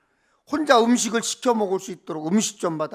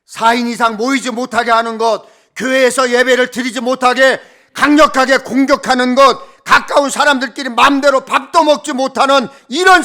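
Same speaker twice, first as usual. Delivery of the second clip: preaching at full force; 2 semitones higher, 8 dB louder than usual. Acted. Preacher building to protest.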